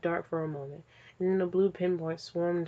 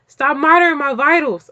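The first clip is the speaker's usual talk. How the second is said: loud, higher flustered yell; angry shout; 8 semitones higher, 13 dB louder than usual. Acted. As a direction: blurt it out in embarrassed panic. Joker snaps at the AI.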